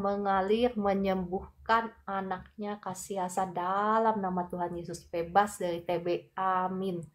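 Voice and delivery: steady prayer declaring healing. Acted. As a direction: speak healing with authority, calmly. (doa penyembuhan yang mantap)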